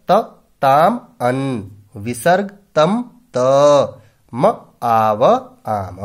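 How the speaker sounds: suffixes chanted one by one, some drawn out very slowly; drilled endings. Shown as a demonstration. Teacher recites past tense suffixes for students to memorise. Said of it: "ये प्रत्यय याद करने हैं".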